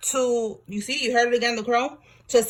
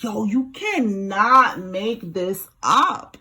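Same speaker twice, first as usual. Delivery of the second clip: stunned disbelief; 2 semitones lower, much slower than usual. Real, not acted. Reader stunned by the cards.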